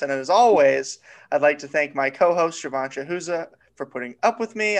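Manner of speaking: talking with a dry mouth; words sticky from a dry mouth. Real, not acted. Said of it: "I just botched his name because my mouth is dry".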